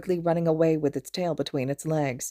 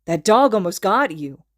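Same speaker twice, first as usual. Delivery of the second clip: alarmed; 3 semitones higher, 7 dB louder than usual. A narrator's reading. Friend shocked after dog attack.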